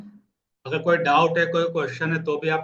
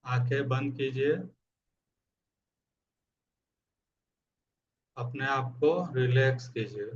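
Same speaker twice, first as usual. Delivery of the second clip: guided meditation. Acted. Coach asks listeners to close their eyes, calm meditation guidance. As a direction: ease them into stillness with long pauses.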